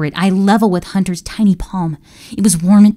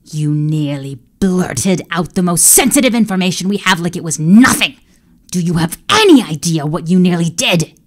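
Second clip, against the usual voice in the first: scolding. Acted. Emperor scolding servant.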